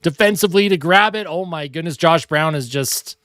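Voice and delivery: hockey announcer calling the action; lively sportscaster call; live play-by-play. Acted. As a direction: call the game like a TV broadcaster. Mock hockey broadcast while playing.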